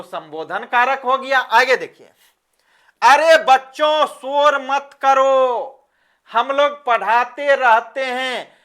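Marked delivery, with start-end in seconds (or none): 3.0-5.7 put-on teacher calling out to noisy children; raised call, last words drawn out; चिल्लाकर पुकारना. Shown as a demonstration. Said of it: "मैंने चिल्लाया और जोर से बोल दिया". (बच्चों को ज़ोर से टोकना)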